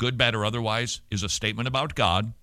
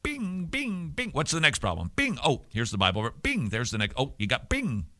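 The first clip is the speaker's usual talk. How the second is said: shooting gallery bing; 2 semitones higher, 4 dB quieter than usual. Retold or imitated. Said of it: "like someone at the shooting gallery".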